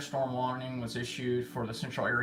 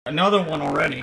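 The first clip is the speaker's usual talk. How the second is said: surprised exclamation; 4 semitones higher, 12 dB louder, faster than usual. Real, not acted. New weather alert just sounded.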